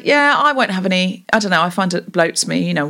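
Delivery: grudging, half-hearted acceptance; mildly pissed off. Shown as a demonstration. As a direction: accept it but sound put out. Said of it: "not be very happy about it".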